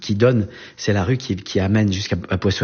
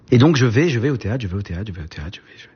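fading repetition; faster than usual. Real, not acted. Repeats theatre trips, fading away.

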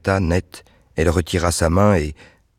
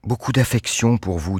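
voix d'Anne; 5 semitones higher than usual. A narrator's reading. Anne's voice in story.

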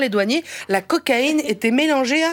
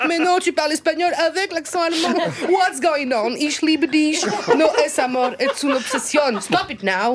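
higher, frantic inner voice bickering with herself; manic self-argument; 6 semitones higher than usual. Pretend. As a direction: play a giddy mock-crazy alter ego. Arguing with herself, mixed accents.

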